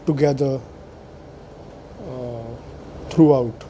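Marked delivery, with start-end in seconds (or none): 2.1-3.6 talking around a sip of tea; words through a mouthful of tea; sipping hot tea. Real, not acted. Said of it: "that was me sipping tea".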